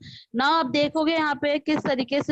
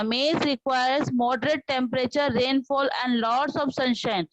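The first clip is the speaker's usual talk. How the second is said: very slow, each word spelled out in sound; slow model reading; much slower than usual. Shown as a demonstration. Teacher models the reading slowly for the class. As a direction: read slowly so the class hears every word. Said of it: "ध्यान से सुना".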